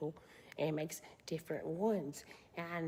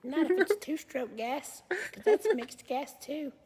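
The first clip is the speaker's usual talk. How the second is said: loud objection; 8 semitones higher, 8 dB louder than usual. Real, not acted.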